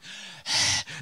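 heavy breathy huff; exasperated sigh. Retold or imitated. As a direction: huff out effort and frustration. Retells sweating while strapping luggage.

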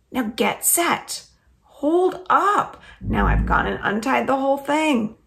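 lively read-aloud storytelling voice; story narration. A narrator's reading. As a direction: read it like a children's chapter book. Reads chapter aloud.

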